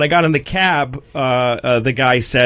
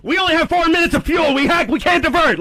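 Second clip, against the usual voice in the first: stressed pilot; 13 semitones higher than usual. Retold or imitated. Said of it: "the pilot sounding stressed".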